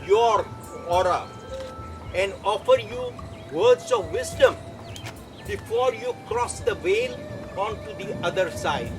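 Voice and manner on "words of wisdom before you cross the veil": sudden high-pitched psychic swoop; high mystic voice. Acted. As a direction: jump way up into a spooky squeal. Pitch jump in psychic act.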